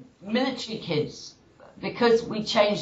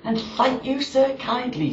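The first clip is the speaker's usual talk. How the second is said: indignant mother with raised pitch; mock-outraged thanks, pitched up; blazing mother; 4 semitones higher than usual. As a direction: play a mother's sarcastic gratitude in comic verse. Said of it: "that mother got proper blazing".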